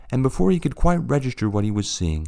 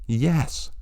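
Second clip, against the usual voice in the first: sobbing; 6 semitones higher than usual. A narrator's reading. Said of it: "sobbed the president through constricted vocal cords".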